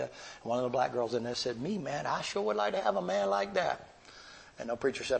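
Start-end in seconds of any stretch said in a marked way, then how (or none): 1.6-3.9 a lightly voiced young woman, pitched up and eager; girl's eager reply. Inmate girl calls out to the preacher, light eager voice. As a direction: chime in like a hopeful young inmate.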